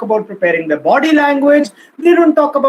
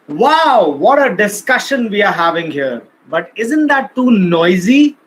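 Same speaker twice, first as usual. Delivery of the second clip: raised voice over noisy room. Shown as a demonstration. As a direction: lift the voice above a noisy room. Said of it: "It's like everybody is shouting and you start with like".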